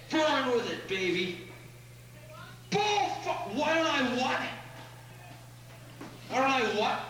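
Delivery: angry ranting at the crowd; swearing tirade. Real, not acted. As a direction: curse them out, challenging. Rant at heckler in audience.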